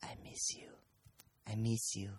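imitating clingy Boylan. Friend mocks Boylan greeting Dara, soft and pleading. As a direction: murmur it like a lovesick puppy. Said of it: "No, he just said".

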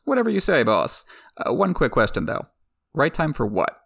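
lightly voiced laid-back rider, a jump up on whatever; casual bodyguard. Rider joking with the queen, casual mock voice. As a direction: play Rakharo like a chill buddy.

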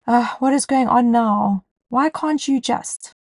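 mock a fed-up outburst, slowing on the last words; acted annoyance. Mom snapping at herself in defensive moments, mildly annoyed. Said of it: "get annoyed or even angry".

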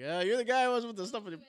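playing the suspicious agent; mock TSA agent. TSA agent catching the guy, mock accusing. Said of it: "Watch T S A is like".

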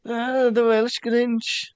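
slow drawn-out Welsh accent. Real, not acted. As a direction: say it with a Welsh lilt. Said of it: "There's my little Welsh accent there".

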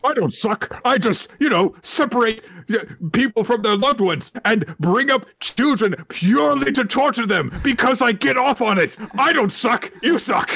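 high, whiny villain parody; mocking the villain, high and whiny. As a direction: sneer it in a high petulant whine. Mock villain whine.

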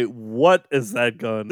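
slow, deliberate "What", each word apart; stress on what. Shown as a demonstration. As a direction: spell out the question, leaning on "What". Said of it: "Is the line delivery".

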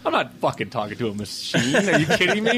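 mock exasperation, rising at the end; irritated grandfather. Grandfather refuses to talk to a machine, mock irritation. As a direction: imitate indignation, pitch climbing to the last question. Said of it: "he was so just irritated".

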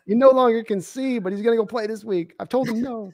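high, dramatic wife voice; mock worried wife. Continuing the wife impression.

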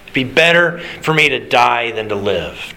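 miserable. Retold or imitated. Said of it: "he is so hot and so miserable".

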